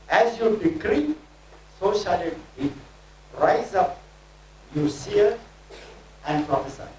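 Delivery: rhythmic declaring, each phrase pushed out; prophetic preaching. Acted. Preacher declaring prophecy over the congregation, fervent. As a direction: proclaim it like a prophet over the crowd.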